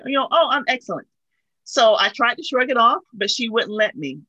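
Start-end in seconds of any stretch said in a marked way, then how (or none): 0.3-1.1 a lighter, slightly raised cheery reply; mild forced cheer. Retold or imitated. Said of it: "That's what I was taught to say".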